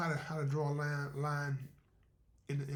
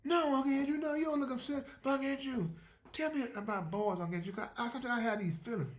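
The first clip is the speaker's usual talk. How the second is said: higher pleading niece; 9 semitones higher than usual. Acted. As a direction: coax him like a shy girl. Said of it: "She said".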